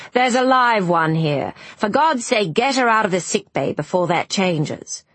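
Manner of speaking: lightly voiced impatient doctor; a touch of a brusque doctor giving orders; brusque ship's doctor. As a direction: order a patient out, mildly irritated.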